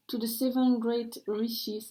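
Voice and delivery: slow English with a French accent. Real, not acted. Card reader reading a prayer aloud in French-accented English. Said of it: "excusez-moi pour mon accent anglais".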